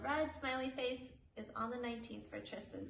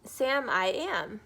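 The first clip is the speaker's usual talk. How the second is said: Sam character voice; 8 dB louder than usual. Acted. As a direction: push it cheerfully on the listener. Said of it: "read you guys Green Eggs and Ham".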